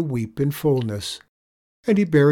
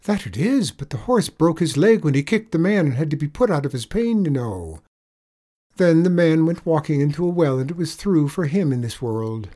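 lightly voiced leprechaun, higher and louder; leprechaun telling a pitiful tale; 6 semitones higher, 6 dB louder than usual. A narrator's reading. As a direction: tell a woeful tale as the leprechaun, raised voice. Leprechaun tells sad tale.

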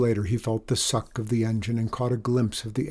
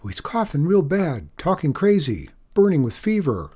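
shaky voice; 6 semitones higher, 5 dB louder than usual. A narrator's reading. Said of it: "keep his voice from shaking".

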